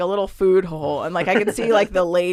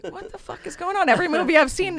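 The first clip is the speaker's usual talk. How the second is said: about to lose it; 11 semitones higher than usual. Retold or imitated. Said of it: "I'm about to lose it".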